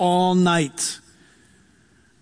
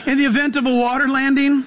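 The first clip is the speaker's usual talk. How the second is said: flight attendant voice; 6 semitones higher than usual. Retold or imitated. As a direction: announce it like crew over the intercom. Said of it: "they'll tell you".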